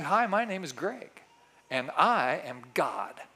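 slow, earnest claim of godhood; mock conviction. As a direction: say it with full pretended conviction. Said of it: "with as much conviction as I can muster".

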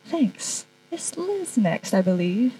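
off mic, distant and soft; mic handed over. Real, not acted. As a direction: step back from the mic. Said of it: "I'll hand the mic to".

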